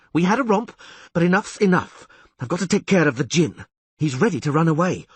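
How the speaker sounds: high, loud dismissive sneer; scornful taunt. Acted. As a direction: brush him off scornfully. Sorceress taunting, dismissing him.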